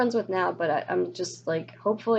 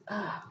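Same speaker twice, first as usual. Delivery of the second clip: frustrated ugh; 2 semitones higher, 7 dB quieter than usual. Real, not acted. Venting about being invalidated online, frustrated sigh. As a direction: let out a soft, fed-up "ugh". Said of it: "makes me so frustrated".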